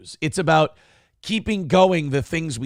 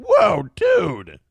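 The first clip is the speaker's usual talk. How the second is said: shocked whoa; 4 dB louder than usual. Retold or imitated. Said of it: "And you're like".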